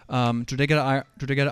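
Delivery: stumbling over "Drogheda" with a false start; nervous stutter. Real, not acted. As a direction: trip over "Drogheda" from stage fright. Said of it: "sorry, I'm nervous, so I'm stuttering".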